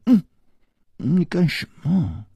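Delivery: high, coy little scolding; coquettish pout. A narrator's reading. Shi Xiuyun scolds him for the bite, coquettish. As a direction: protest sweetly, pretending to be cross. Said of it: "娇嗔地说".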